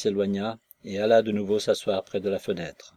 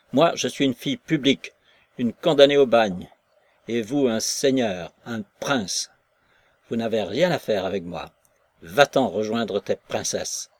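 bitter scorn; 4 dB louder than usual. Acted. Maslova scorns the prince.

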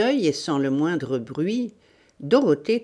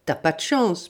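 joking. Acted. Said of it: "plaisanta le complice".

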